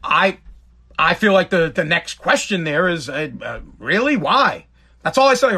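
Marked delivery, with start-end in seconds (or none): 3.8-4.7 higher-pitched, puzzled query; retold disbelief at a refusal; surprised questioning. Host questioning a guest who refused a drink, surprised.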